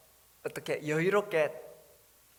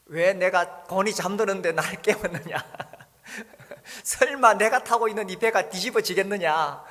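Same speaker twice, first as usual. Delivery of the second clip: mock irritated complaint; 5 semitones higher, 10 dB louder than usual. Mock annoyed Jesus woken up.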